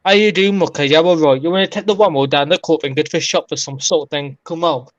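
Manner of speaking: broad Black Country demo phrase; Black Country accent. Shown as a demonstration. Showing friends his own Black Country accent with a stock phrase. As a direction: rattle it off in thick Wolverhampton dialect. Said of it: "if you want to hear the difference between mine and".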